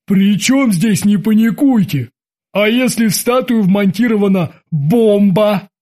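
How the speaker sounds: slow, put-on character voice, protesting; worried sailor's retort in a changed voice; alarmed timid sailor. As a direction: argue back with mild alarm. Timid sailor argues back, alarmed.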